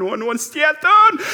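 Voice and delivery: high, loud, drawn-out wail in mock panic; panicked outcry. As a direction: cry out slowly at full volume, acting out panic. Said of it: "Og bare kjenner helt panikk".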